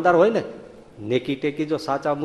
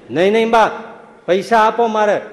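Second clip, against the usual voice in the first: pleading son; 3 semitones higher, 5 dB louder than usual. Retold or imitated.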